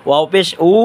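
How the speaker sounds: উ with both lips rounded. Shown as a demonstration. Teacher repeating waw for viewers, round-lipped উ. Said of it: "গুল করিয়া ওয়াও উচ্চারণ করব".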